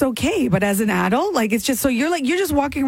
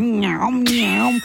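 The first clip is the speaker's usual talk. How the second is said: gum smacking noise; 3 semitones lower than usual. Retold or imitated. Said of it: "you're like".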